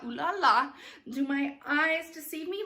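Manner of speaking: acted stage line. Shown as a demonstration. Director repeats Babette's line with the lean, theatrical. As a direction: play it up for the audience. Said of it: "so lean forward on".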